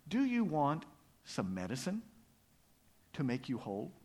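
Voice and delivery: hushed offer with long pauses; mysterious. Acted. Frog offers little mouse medicine, mysteriously, with long pauses.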